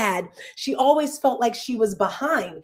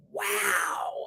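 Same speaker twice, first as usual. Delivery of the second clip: a soft, breathy-high wow of awe, much higher and softer; amazed wow; 11 semitones higher, 8 dB quieter than usual. Retold or imitated. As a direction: let the wow float up high in quiet astonishment. Amazed reaction to her achievements.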